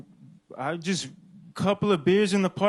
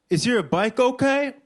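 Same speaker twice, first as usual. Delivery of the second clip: a hint of a cheerleader, pitched higher; lightly voiced cheerleader; 6 semitones higher than usual. Cheerleader checking on the fallen rider, lightly voiced and higher. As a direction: lightly imitate a concerned question, lifting the pitch. Quoting cheerleader standing over him.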